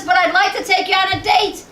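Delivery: the guy pitching his big date idea; mock eager date offer. Retold guy calling a walk a date, mock eager.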